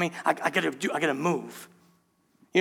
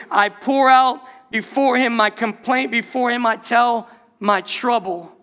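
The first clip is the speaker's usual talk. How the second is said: fervent scripture; 4 semitones higher, 4 dB louder, slower than usual. Acted. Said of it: "is what David said".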